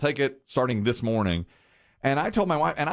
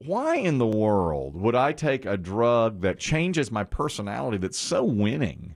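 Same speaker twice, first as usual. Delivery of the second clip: smug rhetorical; slower than usual. Retold or imitated. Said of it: "I just thought to myself".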